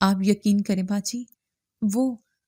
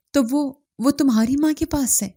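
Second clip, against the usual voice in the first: higher, urgent, a little breathless with hope; eager question; 5 semitones higher than usual. Acted. Mother to Amina asking where her baby is, eager. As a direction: press for the answer impatiently. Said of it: "بتابی سے پوچھا".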